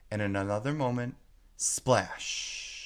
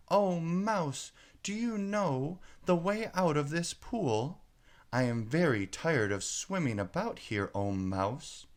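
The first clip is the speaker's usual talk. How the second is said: 1 formal address to a mouse; 6 semitones higher than usual. A narrator's reading. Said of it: "this must be the right way of speaking to a mouse".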